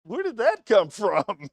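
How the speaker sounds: high, startled "What?"; mock surprise. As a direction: act caught off guard, pitch jumping up. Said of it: "And I said".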